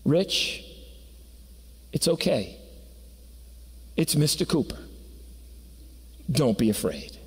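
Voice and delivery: hushed and gentle, barely above a murmur; calm a scared child quietly; soft reassurance. Acted. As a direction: Santa softly telling frightened Rich it's okay. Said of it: "he whispered just loud enough".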